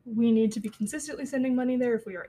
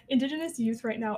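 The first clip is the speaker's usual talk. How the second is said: nervous laugh; 2 semitones higher, 3 dB louder than usual. Real, not acted. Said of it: "Sorry, that was a nervous laugh".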